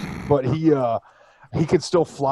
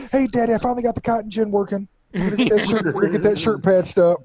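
very high, louder homely wife voice; mock pioneer housewife; 9 semitones higher, 3 dB louder than usual. Pretend prairie spouse reporting to daddy, very high chirpy. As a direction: chirp it like an eager homemaker.

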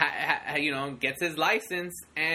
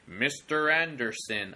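slow, deliberate, lightly menacing name call; Matrix-style teacher; 3 semitones lower, slower than usual. Retold or imitated. Teacher waking a sleeping student, slow and deliberate. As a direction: say the name slowly like a cold agent. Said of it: "a reference to The Matrix".

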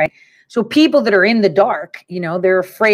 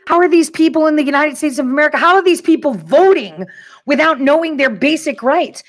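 higher-pitched, incredulous rant; exasperated disbelief; 6 semitones higher than usual. Real, not acted. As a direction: demand an answer, truly baffled. Rant about uninformed voters.

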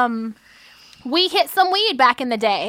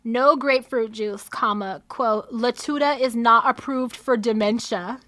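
dictating; 2 semitones lower, 4 dB quieter than usual. Shown as a demonstration. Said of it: "It says".

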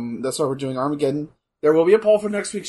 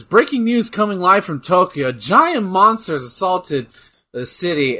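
news anchor; 3 semitones higher, 4 dB louder than usual. Pretend. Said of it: "you see on the news".

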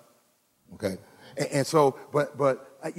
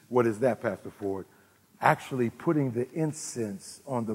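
calm teaching; 9 semitones lower, 6 dB quieter than usual. Acted. Lower teaching voice.

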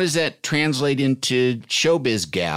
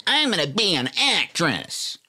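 mock dreamy kid; 6 semitones higher, slower than usual. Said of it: "you have always been like".

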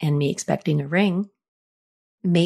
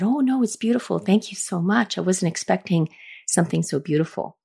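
reassuring gush. Retold or imitated. Quickly recovering after disappointing gift.

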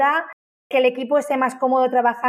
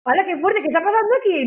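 mock amazement; 6 semitones higher, faster than usual.

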